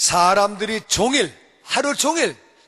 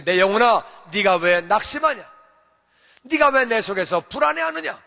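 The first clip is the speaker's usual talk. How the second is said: commanding oneself; 3 dB louder than usual. Shown as a demonstration. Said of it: "자기가 자기에게 명령하는 거예요".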